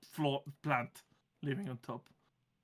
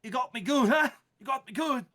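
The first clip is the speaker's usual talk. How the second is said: higher moaning plant voice; 6 semitones higher, 5 dB louder than usual. Acted. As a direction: moan the words, wounded and sulky. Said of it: "the plant is kind of just moaning".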